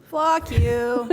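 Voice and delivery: mildly hammed-up team yell; mock yell. Speaker acting out the team's yells for laughs, mock yell. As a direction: call it out away from the mic. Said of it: "wanted to yell things out".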